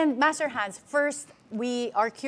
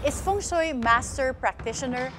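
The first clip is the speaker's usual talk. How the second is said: measured TV presenter introduction; news host read. Real, not acted. Host introducing a feng shui guest, news host read. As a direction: read the show opening in deliberate, well-spaced phrases. Scripted programme opening.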